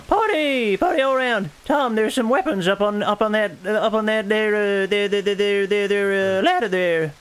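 put-on high-pitched old Prospector accent. Urging Tom toward the weapons, Prospector accent. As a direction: holler like an excited Prospector. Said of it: "a Prospector accent for a pirate game".

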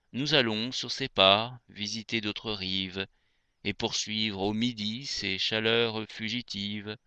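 measured, lyrical poem reading; poetry recitation. Acted. Reader reciting André Chénier to radio listeners, poetry recitation. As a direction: recite verse with phrase-end pauses.

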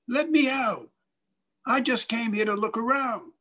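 high-pitched wailing plea; imitating a boy's desperate call; trapped boy pleading. Locked-in boy pleads to leave.

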